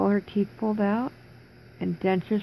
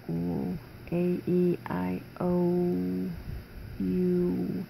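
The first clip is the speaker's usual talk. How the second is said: slow, strained vowels through a sore mouth; stiff vowels; 3 dB quieter, much slower than usual. Shown as a demonstration. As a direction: sound out the vowels barely moving the jaw. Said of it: "I can't move my mouth to form the words".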